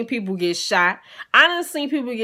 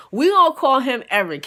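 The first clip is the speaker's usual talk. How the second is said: Eric said with louder emphasis, laughing through it; louder naming; 5 semitones higher, 6 dB louder than usual. Shown as a demonstration. Teller shouting out the name Eric to the audience. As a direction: announce the name Eric to the crowd. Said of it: "I'm just now giving him a name".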